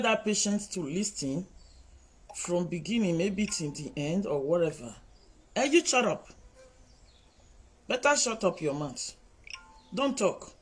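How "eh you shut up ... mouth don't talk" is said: higher, sharp rebuke; sharp shut up; scolding. Real, not acted. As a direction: tell them to shut up. Scolding commenters.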